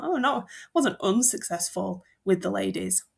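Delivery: lightly voiced mock-modest brag, a hint of smugness; playing Horace falsely humble about his success with women; smug and self-effacing. Teacher voicing Horace to the class, a touch smug and mock-modest. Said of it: "a little bit smug and self-effacing".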